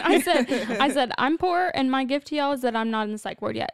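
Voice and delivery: giggling through the words; laughing. Real, not acted. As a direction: laugh while telling it. Laughing while quoting herself.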